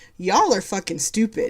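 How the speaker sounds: usual speaking voice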